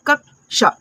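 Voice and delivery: कक्षा broken into "कक्" and "शा"; syllable-by-syllable demo. Shown as a demonstration. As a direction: teach कक्षा in two clear pieces. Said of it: "इसको क्या पढ़ रहे हैं". (कक्षा को तोड़कर "कक्-शा" बोलें)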